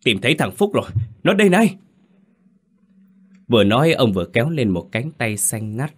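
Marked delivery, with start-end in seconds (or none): 0.0-1.8 rising to a high, loud call; old man calls from the water that he found the boy. A narrator's reading. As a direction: shout the find across the river. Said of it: "tiếng ông Đậu vang lên".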